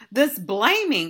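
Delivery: loud, slow, worked-up ranting tone.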